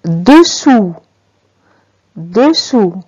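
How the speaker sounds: "Dessous" ending on a clear oo, no final S; silent final S. Shown as a demonstration. Teacher reads out the word of the text, "Dessous" with silent last S. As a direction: model "Dessous" carefully, leaving the last S mute. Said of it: "est une lettre muette".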